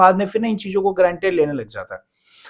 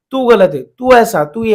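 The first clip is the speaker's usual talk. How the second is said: mock accusing; 3 semitones higher, 5 dB louder, slower than usual. Imitating someone blaming their partner in a fight, mock accusing. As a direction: lightly play an accuser firing off blame.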